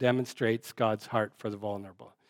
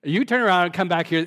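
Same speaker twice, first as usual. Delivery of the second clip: louder, quicker stern parent's command; scolding parent; 4 semitones higher, 5 dB louder, faster than usual. Retold or imitated. Preacher voicing a parent calling back a child, louder and sterner. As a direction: snap it out like an upset parent. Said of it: "that's a parenting phrase".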